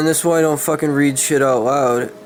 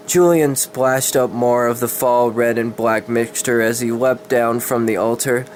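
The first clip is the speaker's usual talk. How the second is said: steady dramatic storybook reading; story narration. A narrator's reading. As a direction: read the dark fantasy tale aloud, evenly. Reads a dark fantasy story.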